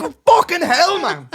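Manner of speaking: high, loud mock despair; exasperated groan. Exasperated inner reaction retold.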